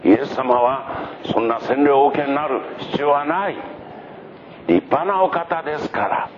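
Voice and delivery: high-pitched, deferential protest; flustered, humble prophet. Acted. John protests at Jesus's request. (恐縮して高い声であわてて断る)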